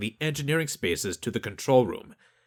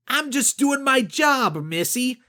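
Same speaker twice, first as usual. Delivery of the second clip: condescending official; 14 semitones higher, 4 dB louder than usual. Acted. Lakowski voiced, condescending.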